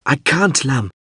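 high, pleading protest; distressed cry. A narrator's reading. Pilot refuses the abandoned crewman, distressed high cry. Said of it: "Mip cried".

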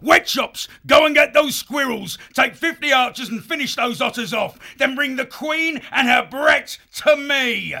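high, loud commander's shout; shouted orders. Acted. Foxwolf chief to his horde, loud shouted orders. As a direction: bellow orders to the troops.

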